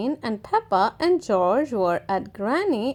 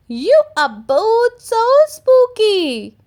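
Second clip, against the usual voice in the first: high, louder praising granny; delighted granny; 8 semitones higher, 6 dB louder than usual. Acted. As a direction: praise the kids warmly. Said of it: "said Granny Pig".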